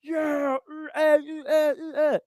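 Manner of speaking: imitating a boxer's smug victory grunts; gloating grunts. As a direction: strut over a fallen rival, grunting. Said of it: "they turn around and they go".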